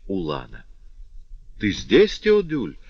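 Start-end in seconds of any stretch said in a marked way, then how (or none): 1.6-2.8 high surprised cry of joy; aunt exclaims in delight, pitch jumping up; exclaiming. A narrator's reading. Aunt greeting her nephew, delighted exclamation. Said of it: "воскликнула она".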